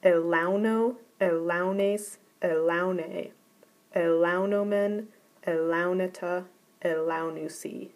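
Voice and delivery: Elauno through elaunusi recited in a row, each with its recessive accent; steady teacher chant of Elauno, elaunes, elaune; reciting the indicative. Shown as a demonstration. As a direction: recite the paradigm aloud for the class. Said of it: "I'll go through the indicative for you".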